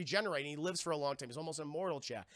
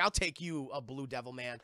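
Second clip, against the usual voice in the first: mock German accent; 6 semitones lower than usual. Nightcrawler flirting with the ladies in a mock German accent. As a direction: purr it with a faint German accent. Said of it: "Something about that German accent of his".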